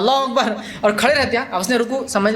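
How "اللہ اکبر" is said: blunt command. Shown as a demonstration. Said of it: "وہ سیدھا حکم دیتا ہے".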